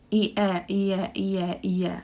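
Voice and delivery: ie glided smoothly with a y sound between; natural ie glide. Shown as a demonstration. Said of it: "natural way is that when we put y in the middle".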